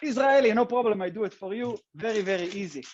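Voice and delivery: light Israeli accent on request. Shown as a demonstration. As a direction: lean into the Israeli accent a little. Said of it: "do you wanna watch it in my Israeli accent".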